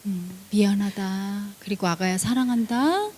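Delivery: low, soft, slow reassurance; tender father. Acted. Healer as father reassures daughter, low and soft. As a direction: hush and comfort.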